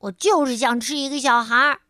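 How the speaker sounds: put-on "就是" leaned on like a sulky kid; irritated insistence. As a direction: push it out quick and cross, hitting 就 hard. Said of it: "琪琪烦躁地说".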